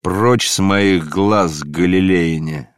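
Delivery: angry outburst. Acted. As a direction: drive them away in rage. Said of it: "взорвался он гневом". (гневный крик старика)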